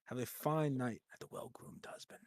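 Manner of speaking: quiet, courteous sign-off; soft polite waiter. Pretend. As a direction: bid farewell like a formal server. Waiter's farewell.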